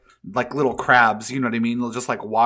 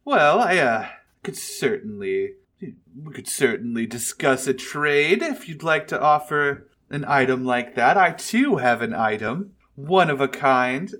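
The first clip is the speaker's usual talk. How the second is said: dragon voice; 2 semitones higher than usual. Acted. Dragon offers a trade.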